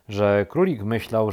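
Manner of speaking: plain reading voice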